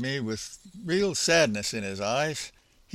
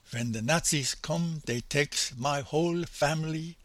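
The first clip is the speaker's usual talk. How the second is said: soft, imitated German accent, broken English; a light German accent, told quietly; an old man's German accent, recalling his childhood; 4 dB quieter than usual. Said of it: "my attempt at his accent".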